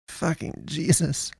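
very soft, slow, high-pitched oath; petering out. A narrator's reading. Shocked man after witnessing a death, petering out. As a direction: let it peter out, barely voiced. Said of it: "Hunter petered out".

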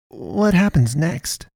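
high, slow, wavering with dread; wavering urgency. A narrator's reading. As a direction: ask fearfully, dreading it. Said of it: "urgency and fatalism in her wavering voice".

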